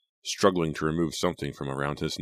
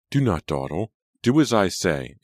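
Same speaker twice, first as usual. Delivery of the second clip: cold, louder imperious order; cold command; 4 semitones higher, 5 dB louder than usual. A narrator's reading. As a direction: snap the order coldly. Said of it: "Angelica insisted coldly".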